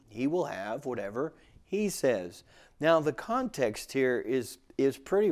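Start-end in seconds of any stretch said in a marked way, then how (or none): 0.1-2.4 "He" set apart and emphasized; stress on HE. Shown as a demonstration. Preacher repeating the verse for emphasis, stress on "He". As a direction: put the weight on the word "He". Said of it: "put the emphasis on he".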